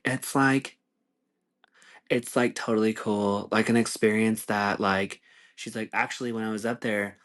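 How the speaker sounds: a hint of a gushing pop star, mocking; impression of a pop singer. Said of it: "And she's like".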